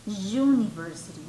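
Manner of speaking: UNIVERSITY starting on a clear "yu"; sonido yu inicial. Shown as a demonstration. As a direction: show the consonant-like yu in UNIVERSITY. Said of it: "el sonido es con u". (university con yu inicial marcado)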